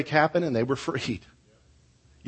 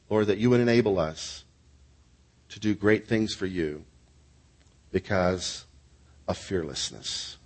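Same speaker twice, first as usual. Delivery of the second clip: measured closing prayer with long pauses; phrase by phrase, sinking in pitch; earnest prayer; 3 semitones lower than usual. Real, not acted. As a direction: pray aloud for the congregation, unhurried.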